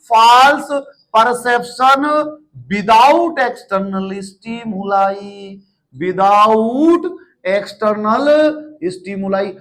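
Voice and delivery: each word set apart for note-taking; slow dictation. Shown as a demonstration. Teacher dictating a definition to the class, slow and separated. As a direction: spell it out slowly so students can copy. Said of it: "ऐसे के ऐसे लिखना".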